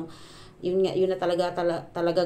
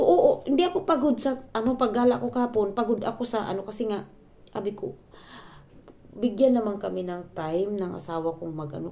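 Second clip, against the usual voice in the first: heated retelling; 3 semitones higher than usual. Retold or imitated. Vlogger retelling her reply to her mother-in-law, heated and raised. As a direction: push back hard at the mother-in-law.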